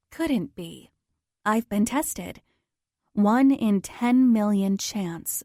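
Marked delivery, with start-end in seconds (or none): 3.1-5.4 doctor's verdict. Retold or imitated. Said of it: "the doctor said".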